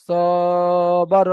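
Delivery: স and বার read short and quick, no stretch; quick short syllables. Shown as a demonstration. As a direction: read স বার briskly without lengthening. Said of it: "এখানে টান দেবো না".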